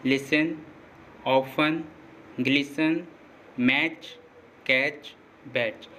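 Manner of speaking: लिसन, ऑफन, ग्लिसन with no T sound before the final "n"; silent T. Shown as a demonstration. Teacher giving examples of TEN and TCH words, silent T. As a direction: say मैच, कैच, बैच ending in plain "ch", the T unsounded. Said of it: "टीईएन और TCH में टी silent".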